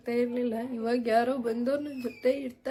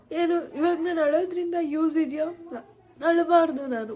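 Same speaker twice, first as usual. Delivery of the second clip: crying; 4 semitones higher, 5 dB louder than usual. Real, not acted. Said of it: "ಆದ್ರೂ ಕಣ್ಣೀರ್ ಬರ್ತಿದೆ".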